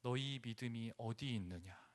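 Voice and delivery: 너희 said low and soft; quiet reproach. Acted. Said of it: "이렇게 한마디 합니다". (조용한 책망)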